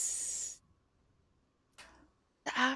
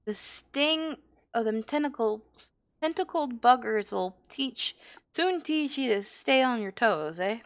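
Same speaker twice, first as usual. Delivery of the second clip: lively, louder in-character dialogue read; lightly voiced rogue mentor; 6 dB louder than usual. Guild rogue to new recruit after practice, lightly in character.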